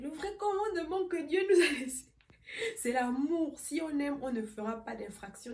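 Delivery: lightly imitating a sermon; mock preaching. Imitating the sister preaching love at her, lightly. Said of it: "elle parlait l'évangile".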